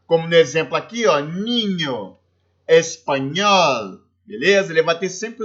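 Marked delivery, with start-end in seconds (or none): 1.2-4.0 "ninho, espanhol" slowly, with ñ as Portuguese nh; Spanish ñ. Shown as a demonstration. Teacher giving students examples of ñ, slow and careful. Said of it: "ele tem o som do N H do português".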